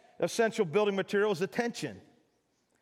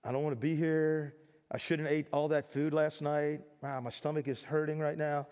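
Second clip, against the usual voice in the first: bored slouching student; 5 semitones lower, 4 dB quieter than usual. Retold or imitated. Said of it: "everybody slouched over like".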